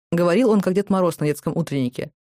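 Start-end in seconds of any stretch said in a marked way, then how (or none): none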